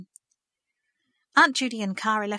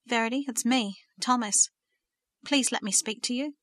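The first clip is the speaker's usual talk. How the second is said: gentle; 2 semitones higher than usual. Acted. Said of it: "The words were spoken so gently".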